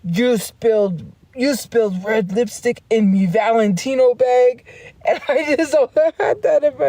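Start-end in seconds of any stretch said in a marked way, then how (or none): 0.0-4.6 Mr. Krabs impression. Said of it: "he did Mister Krabs".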